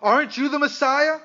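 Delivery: mild mock yell, high pitch; retold yelled insult. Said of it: "began to yell insults at him".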